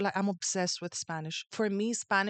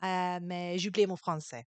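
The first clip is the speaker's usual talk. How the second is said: put-on French accent; 3 semitones lower, 4 dB quieter than usual. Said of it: "do French".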